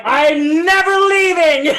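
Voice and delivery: high, loud and slow, laughing with joy; giddy delight. Retold or imitated. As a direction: savor it like you've won. Delight in business class seat.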